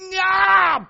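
very loud, high holler; explosive yell. Retold or imitated. Pastor finally letting go and taking off, explosive yell. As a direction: burst out with a wild, high yell. Acts out sudden outburst before running.

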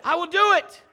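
high, loud vow; fervent vow. Acted. Brett promising God, loud high fervent vow. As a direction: belt out the promise.

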